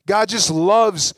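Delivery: slow emphasis. Acted. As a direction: stretch out the words slowly. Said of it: "slowed emphasis in sermon".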